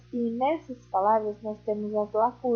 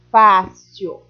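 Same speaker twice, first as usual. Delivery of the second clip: cheery exclamation; 2 semitones lower, 9 dB louder than usual. Acted. Teacher cheering pupils.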